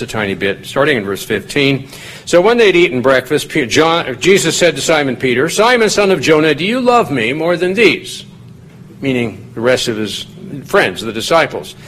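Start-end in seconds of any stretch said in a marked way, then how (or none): 5.5-8.2 raised pitch, stress on "love"; first emphatic asking. Acted. Jesus first questioning Simon Peter, emphatic asking. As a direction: open the build with a higher, measured question. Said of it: "put an emphasis on a different syllable each time".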